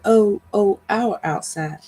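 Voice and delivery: a mild narrated moan, the oh lifted then fading. A narrator's reading. Queen of the underworld in labour, mild moaning. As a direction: lightly moan the oh, oh. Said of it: "They moaned".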